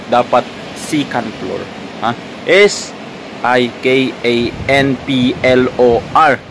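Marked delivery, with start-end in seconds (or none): 0.8-1.6 "second floor" as "sikan plor", Philippine style; Philippine accent. Shown as a demonstration. Vlogger insisting on the accent lover's version, Philippine accent. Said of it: "kung mahal mo ang Philippine accent". 2.4-6.4 letter by letter, each one separate; spelled out. Shown as a demonstration. Vlogger spelling the accented word for viewers, spelled out.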